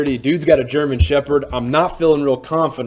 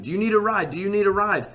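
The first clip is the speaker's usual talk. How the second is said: broken English; 6 semitones higher than usual. Retold or imitated. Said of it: "He speaks kind of broken English".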